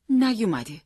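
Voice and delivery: نیومده high, then falling to a close; falling statement. A narrator's reading. Mother reporting son not home, falling tone on نیومده. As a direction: state نیومده as news, pitch dropping.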